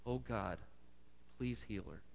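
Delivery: soft, hushed prayer for healing; Moses crying out. Acted. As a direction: pray quietly, humbly for his sister. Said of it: "Moses cried out to the Lord".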